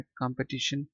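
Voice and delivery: American "कॉम्पिटिशन" with an ah in the first syllable; American-accent "कॉम्पिटिशन"; American pronunciation. Shown as a demonstration. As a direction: say "कॉम्पिटिशन" as kahm-petition, American style. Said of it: "पढ़ेंगे इसको American accent में".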